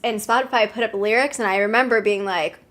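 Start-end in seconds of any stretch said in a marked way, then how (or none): none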